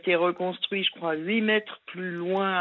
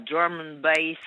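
American accent; slower than usual. Shown as a demonstration. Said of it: "avec un accent américain".

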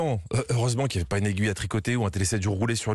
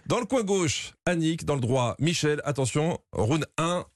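fighting game announcer; 3 semitones higher, slower than usual. Acted. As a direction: ring announcer calling the fighters. Mock fight announcer intro.

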